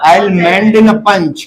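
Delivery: very slow, word by word; teacher's first slow model of the sentence. Shown as a demonstration. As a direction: spell the sentence out for pupils. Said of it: "क्या बोलेंगे?".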